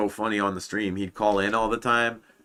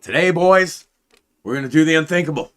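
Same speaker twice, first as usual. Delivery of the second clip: loud, high raid-leader hype speech; frat bro; 8 semitones higher, 8 dB louder, faster than usual. Retold or imitated. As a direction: pump the boys up like a raid leader. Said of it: "he goes into, like, these fucking".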